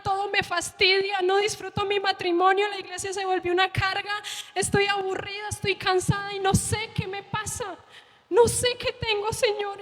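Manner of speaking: retold broken-hearted prayer; tearful prayer. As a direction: pour out your despair to God. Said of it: "yo empecé a llorar".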